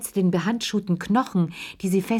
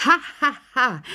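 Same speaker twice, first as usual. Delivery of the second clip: acted "Ha, ha, ha", pitched higher and a bit louder; too-loud laugh; 7 semitones higher than usual. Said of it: "lachten die beiden Heloten unvorsichtigerweise zu laut".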